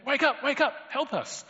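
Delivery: high, loud frantic shout to wake him; panicked plea. Acted. Disciples shouting at sleeping Jesus in panicked fear. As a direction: yell in panic as the boat sinks. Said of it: "And we're saying".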